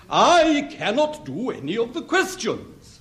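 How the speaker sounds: "I cannot do any of the questions" said carefully and correctly; proper grammar. Shown as a demonstration. Teacher correcting a pupil's grammar, precise and proper. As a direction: correct the boy's "can't do none" with a model sentence. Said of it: "Oh, your grammar".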